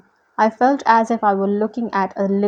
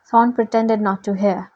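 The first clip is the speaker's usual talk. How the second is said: ordinary delivery, nothing marked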